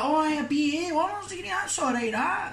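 high, impressed mock voice; gushing fake-impressed voice; impressed onlooker. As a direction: play someone wowed by a degree. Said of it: "They're like".

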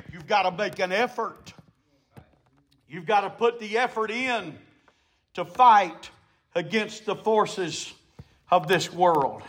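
low, soft, with pauses between phrases; hushed exhortation. Real, not acted. Preacher urging effort against the world's forces, hushed. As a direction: drop right down after the climax. Sudden hush after the climax.

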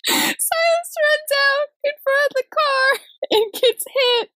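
laughing through high, drawn-out words; helpless giggles squeezing the voice up high; cracking up. Real, not acted. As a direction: tell it while losing it laughing. Cracking up while retelling the accident.

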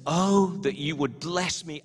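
"bless" punched within the verse; stress on BLESS. Shown as a demonstration. Pastor explaining the Hebrew emphasis, stress on "bless". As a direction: lean hard on "bless me". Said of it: "there's an emphasis on the word blessing".

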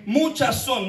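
"Muchas" leaned on, slow and weighty; stress on muchas. Shown as a demonstration. Preacher points the congregation to many, stressing "Muchas". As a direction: make them hear "Muchas" not "pocas". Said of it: "no dice pocas".

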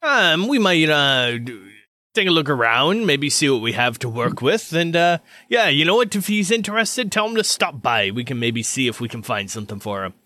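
obliging armorer character. Acted. Armorer inviting a friend to stop by, lightly voiced. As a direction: think it over, then offer help. Game master voices the surgeon.

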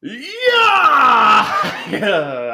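excited laughing yell. Real, not acted. Answering a friend's question with a whoop, then laughing.

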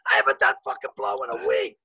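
mock outrage at the agent; indignant retort. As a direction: push back hard at the accusation.

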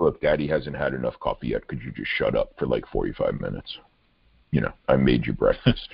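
put-on low, understated grumble to a pestering kid; weary dad. Father voiced snapping at his kid.

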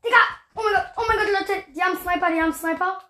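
high, urgent alarmed call. Real, not acted. Alarm at enemy snipers.

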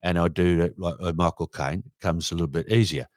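low, soft Cockney; understated Cockney impression; Cockney accent. Shown as a demonstration. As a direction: drop into an easy Cockney voice. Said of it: "the Cockney accent".

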